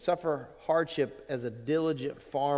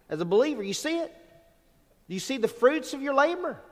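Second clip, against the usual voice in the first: fervent preaching; 10 semitones higher, 3 dB louder than usual. Real, not acted. Preacher rising to a climax.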